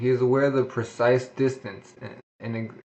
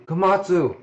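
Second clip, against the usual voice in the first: slow, drawn-out yell, higher and louder; shouting names; 7 semitones higher, 5 dB louder, much slower than usual. Acted. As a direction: call out desperately across the fight. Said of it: "Toriko said".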